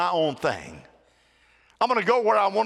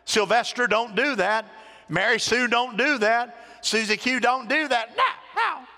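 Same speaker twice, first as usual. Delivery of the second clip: permissive parent; 3 semitones higher than usual. Retold or imitated. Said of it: "will say".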